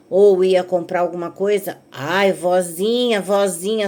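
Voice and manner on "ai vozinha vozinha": drawn-out sugary vozinha, slowed; sweet wheedling voice. Retold or imitated. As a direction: wheedle for a treat, stretching vozinha. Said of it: "assim mesmo". (neta bajulando a avó com voz melosa)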